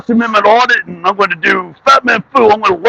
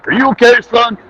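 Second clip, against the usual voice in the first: mock cop; 3 semitones higher than usual. Prankster imitating the cop who checks on him, mock-concerned. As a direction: imitate a worried cop, then drag out the threat. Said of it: "The cop's coming up going".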